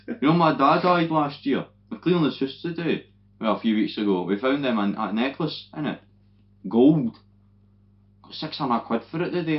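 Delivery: a hint of a chatty old man at the bar; old boy voice. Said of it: "And I'm like".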